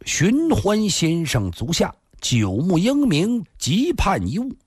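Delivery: lightly declaimed formal letter; formal letter reading. A narrator's reading. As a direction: read out the challenge letter ceremoniously. 信上写的是.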